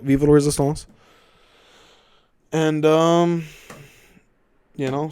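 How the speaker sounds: lightly put-on solemn rallying address; measured mock-leader proclamation; mock resistance speech. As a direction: address the troops with mock gravity.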